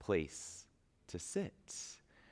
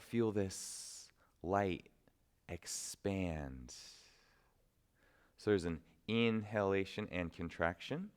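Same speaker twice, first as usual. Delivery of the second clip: guided meditation. Acted. Teacher guiding students to visualize inner light, unhurried meditation voice. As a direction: draw out the images, leaving room to breathe.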